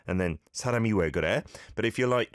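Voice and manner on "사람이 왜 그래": "사람이 왜 그래?" rattled off very fast; a quick, incredulous "사람이 왜 그래?"; rapid disbelief. Shown as a demonstration. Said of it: "couldn't believe it".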